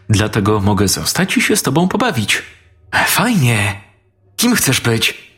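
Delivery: put-on two small boys chatting over their toys; lightly voiced little boys. A narrator's reading. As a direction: play both boys as small children, light and eager.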